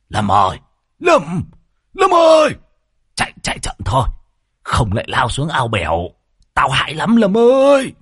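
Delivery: gọi to át tiếng gió, cao vút; hét vào tai người lái xe; gào lên. A narrator's reading. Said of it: "ghé tai Lâm Sẹo mà gào lên". (thầy Môn Phọt gào vào tai Lâm Sẹo)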